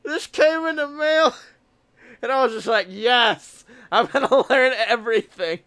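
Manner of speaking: talking around a harmonica mouthpiece. Real, not acted. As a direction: speak with the mouthpiece still between lips. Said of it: "still talking with the mouthpiece in".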